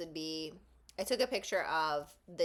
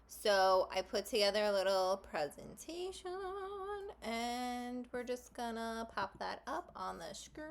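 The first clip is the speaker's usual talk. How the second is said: odd put-on talk; 3 semitones higher than usual. Real, not acted. Vlogger putting a little presentation up on the screen, odd singsong talk. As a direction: stretch the last words out playfully, pitch climbing. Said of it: "I don't know why I'm talking like this".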